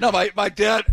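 sudden loud outburst; blurting it too loud; shouting as noise stops. Real, not acted. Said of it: "Whoa, that was loud".

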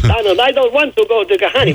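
hammed-up Zsa Zsa Gabor accent; lightly mock a wife with a Zsa Zsa Gabor accent; comic Zsa Zsa Gabor accent impression. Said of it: "do her Zsa Zsa Gabor accent".

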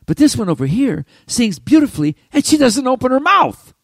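marvelling out loud; amazed. Retold or imitated. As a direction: voice climbing high and loud in disbelief. Amazed thought about the ventriloquist.

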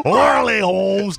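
put-on Spanish accent; Cuban accent. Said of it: "Why does it sound Mexican?".

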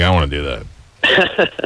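low, slow mock fan; imitating a kid hooked by a rock singer's video; mock dazzled teen fan. Host mocks guest's teen self, low and slow. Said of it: "You're like".

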